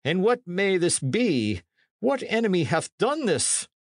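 high character voice, regaining composure; priest somewhat recovering. A narrator's reading. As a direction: pull yourself together after a shock. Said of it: "said the priest, somewhat recovering".

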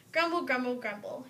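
playful stomach growl sound; stomach grumble. A narrator's reading. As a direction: voice a hungry stomach rumbling. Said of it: "His stomach growled in hunger".

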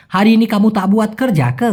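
"হারি ইনি" with a clear r; correct pronunciation. Shown as a demonstration. Teacher teaching the correct form first, clearly articulated. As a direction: say "কর যাক" in full, unslurred. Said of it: "আমরা আগে শুদ্ধটা শিখবো".

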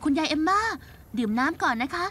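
gentle comfort. Acted. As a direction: ease her down kindly. Comforting grandma after the mistake.

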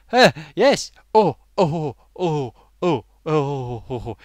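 lightly hammed-up flustered English fop, spluttering oh oh; hint of a fop; mock foppish British fool. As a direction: splutter like a helpless posh fool. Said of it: "Talking like we all do".

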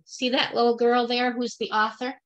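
ordinary delivery

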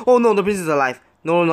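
loud, high cry of alarm; real alarm, voice jumping up. Real, not acted. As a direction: exclaim in sudden dismay. Spots the prince still alive.

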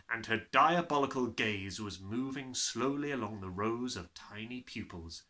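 ordinary delivery

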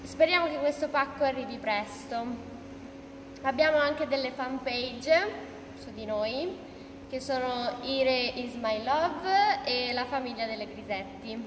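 lisping through a retainer; slurred S from braces; wearing a retainer. Real, not acted. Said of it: "Non ho la S molto bella".

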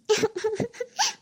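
short rising sobs, fairly soft; acted sobbing. Wife fed up with her husband, sobbing. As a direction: break into stuttering theatrical sobs. Wife breaks down during quarrel.

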